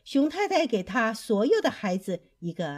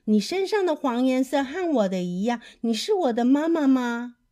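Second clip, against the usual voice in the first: raised, higher little-bird voice; speaking up; 4 semitones higher, 5 dB louder than usual. Acted. Little bird asking a giraffe to be mother, speaking up. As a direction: ask it out loud, hopefully. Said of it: "它大声地说".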